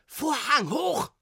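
high, drawn-out director's yell; bellowed command. A narrator's reading. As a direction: roar the order across the stage. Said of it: "Der brüllte nun". (gebrüllter Befehl)

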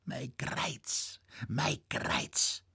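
soft, sighing moan over his aching back; half under the breath, mein Kreuz twice; moaning lament. Acted. Old man laments his back.

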